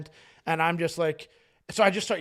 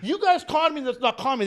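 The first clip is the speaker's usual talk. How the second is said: high, loud mock-desperate yelling; hammed-up frantic complaint, pitched way up; panicked plea; 8 semitones higher, 13 dB louder than usual. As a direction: shout it like a comic plea for rescue. Acted panicked plea, laughter around.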